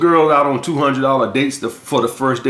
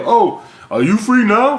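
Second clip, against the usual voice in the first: high, slow, whiny mock plea; mocking a needy follow-up; 6 semitones higher than usual. Dating coach mocking a guy who texts back, whiny high plea.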